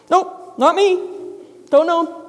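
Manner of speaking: a hint of a flustered Peter; nervous denial. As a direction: brush it off quickly. Peter denies knowing Jesus.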